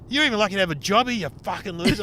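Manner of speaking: mock angry telling off. Retold telling off the boss.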